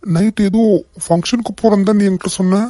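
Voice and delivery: alarmed shock. Acted. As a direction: demand answers, rattled and alarmed.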